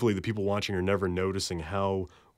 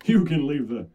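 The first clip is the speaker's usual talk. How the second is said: louder punch-in; 6 semitones higher, 7 dB louder than usual. Acted.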